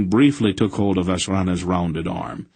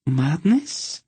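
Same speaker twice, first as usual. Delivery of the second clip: higher sharp alarmed question; 7 semitones higher than usual. A narrator's reading. Countess alarmed at the madness, sharply repeating. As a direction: snap the word back in alarm. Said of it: "repeated sharply".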